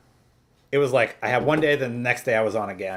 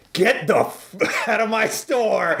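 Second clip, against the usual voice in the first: mock furious manager, higher and half laughing; angry boss shout; 8 semitones higher, slower than usual. Retold boss yelling at a teen quitting, angry. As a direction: snap at the kid to get out. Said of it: "he lost it on me".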